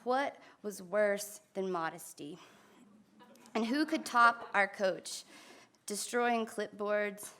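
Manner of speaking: measured recital, pausing after each phrase; poetry reading. Acted. Poet reads Jocks about her old team, poetry reading. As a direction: let each line of verse land separately.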